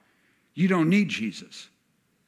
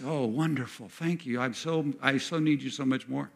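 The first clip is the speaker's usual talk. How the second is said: softer, tender thanks; soft gratitude; 5 dB quieter than usual. Acted. Believer thanking Jesus after the piercing, soft and tender. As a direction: breathe out relief and thanks.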